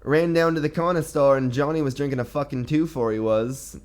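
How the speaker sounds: put-on a loose East Coast Canadian accent, slipping into Irish; mock Nova Scotia accent. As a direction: play a Trailer Park Boys local telling a story. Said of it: "kinda sounded like a little Irish".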